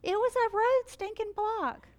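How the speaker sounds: amused at the road sign, laughing. Real, not acted. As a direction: laugh through the words.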